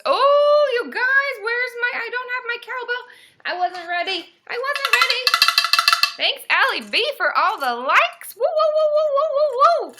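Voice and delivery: loud, high-pitched hype shouting; excited celebration. Real, not acted. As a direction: whoop and shout thanks, caught off guard. Caught unready celebrating viewers' likes.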